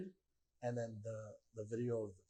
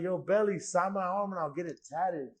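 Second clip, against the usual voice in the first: louder, higher shout for attention, retold; retold calling out; 5 semitones higher, 6 dB louder than usual. Fan calls to a player for an autograph, retold calling out. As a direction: call to the player over the crowd, re-enacted.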